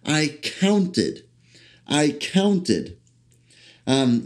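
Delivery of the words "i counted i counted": "counted" hit firmly, falling at the end, said twice; stress on counted. Shown as a demonstration. Preacher driving home the word counted, firm stress. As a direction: repeat "I counted" and punch "counted". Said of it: "I'm emphasizing that word count".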